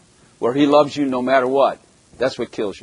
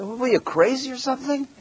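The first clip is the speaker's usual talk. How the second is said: gruff German husband. Retold or imitated. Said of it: "Constantly reassure her".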